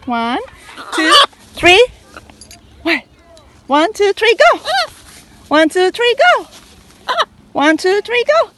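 high, loud count-off; loud launch count for a pet parrot. Real, not acted.

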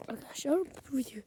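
hushed whisper; soft secret whisper. Real, not acted. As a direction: whisper it to the viewers. Whisper before outburst.

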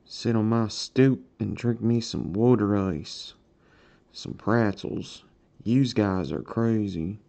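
Philadelphia neighborhood talk; Philadelphia accent. Shown as a demonstration. Streamer on his stoop talk, showing off Philadelphia accent. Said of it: "Philadelphia accent".

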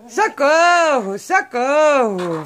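high, drawn-out playful plea; mock cry for help. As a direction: call for help slowly, in jest. Mock cries for help to parrots. (socorro de brincadeira, bem arrastado)

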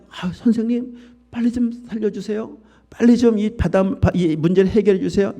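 high, urgent pleading voice of frightened disciples; a hint of panicked disciples crying for help; panicked disciples' plea. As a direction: beg the teacher to save you, in a hurry.

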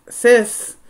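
high, loud cry of Sis; frightened cry. A narrator's reading. Terrified Dan calls his sister, loud frightened cry. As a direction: call out to her in panic.

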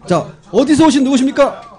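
loud MC call. Acted. MC calling out to guest.

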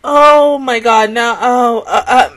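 tearful, broken oh my gods; crying. Real, not acted. Viewer crying as the episode ends. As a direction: choke the words out through tears. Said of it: "I can't stop crying now".

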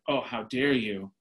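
slow, mock-condescending reproach. Guy at the bar to a woman who declines, mildly condescending. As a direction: talk down to her, drawn out. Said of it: "started with this condescending approach".

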